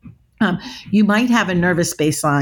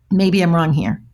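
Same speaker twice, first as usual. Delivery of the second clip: really calm. Shown as a demonstration. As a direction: keep it calm and non-judging. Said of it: "you know, really calm".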